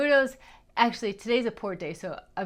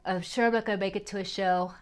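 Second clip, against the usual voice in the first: talking through a yawn; faster than usual. Real, not acted. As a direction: let a yawn stretch the words. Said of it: "see, now I'm gonna yawn".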